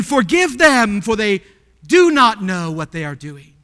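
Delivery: loud, pleading pulpit prayer; forceful acted petition; fervent petition. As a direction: plead it out loud, coming down in pitch. Preacher voices Jesus petitioning the Father.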